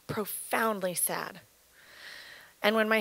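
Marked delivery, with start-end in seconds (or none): 0.1-1.4 softer, slow echo of the phrase; quiet sad echo. Real, not acted. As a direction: repeat it softly, almost to herself.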